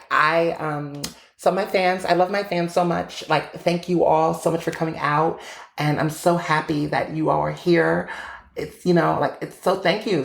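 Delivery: imitating a high-pitched, throaty pop-star voice; girly starlet gushing thanks to fans; a pop singer. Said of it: "very high-pitched, throaty voice".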